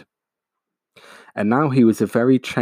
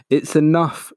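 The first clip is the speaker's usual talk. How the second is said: higher, pleading cry; 6 semitones higher, 3 dB louder than usual. Acted. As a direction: cry out that it is too much. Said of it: "cried the dragon".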